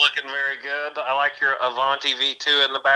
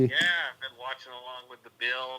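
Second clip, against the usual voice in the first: phone speaker. Real, not acted. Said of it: "I got the phone next to the, uh, the microphone".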